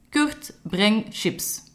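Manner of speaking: high call into a microphone. Acted. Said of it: "ging voor een micro staan en riep". (Camille roept hoog in de microfoon naar Kurt)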